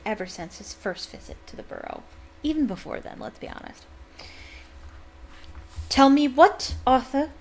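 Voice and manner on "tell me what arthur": loud, sharp and menacing; a warning edge, louder; dangerous tone. A narrator's reading. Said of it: "in a dangerous sort of voice".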